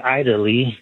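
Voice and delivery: "Italy" starting like the word eye; mispronounced Italy. Shown as a demonstration. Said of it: "we don't say Italy".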